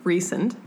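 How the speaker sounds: Rhysand said REE-sand, plain English; author's Rhysand. Shown as a demonstration. Correcting a friend, says Rhysand the author's way. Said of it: "R H Y S A N D".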